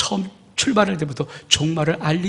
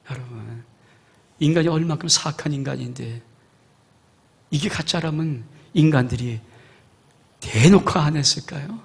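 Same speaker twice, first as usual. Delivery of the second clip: ordinary delivery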